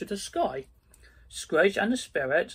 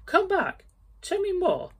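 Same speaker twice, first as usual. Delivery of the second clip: much higher, louder pleading call; desperate calling; 4 dB louder than usual. Acted. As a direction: beg the ghost to return. Scrooge begging the vanished ghost.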